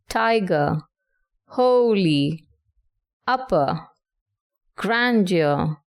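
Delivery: "tiger, holy, upper, grandeur", each stressed on the first syllable; trochaic stress. Shown as a demonstration. Teacher gives examples of trochees, first syllable stressed in "tiger, holy, upper, grandeur". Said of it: "stressed syllable followed by an unstressed syllable".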